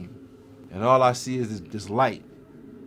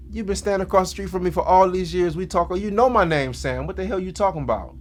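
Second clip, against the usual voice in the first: high-pitched, incredulous retort; worked-up protest, pitched high; indignant comeback; 7 semitones higher, 3 dB louder than usual. Retold or imitated. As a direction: act out an exasperated reply. Retold indignant reply to neighbor.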